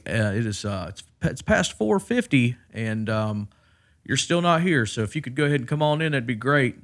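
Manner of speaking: lightly voiced polite caller; voicemail from hospital. Hospital voicemail asking Travis to come in, lightly mocking tone. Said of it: "they were like".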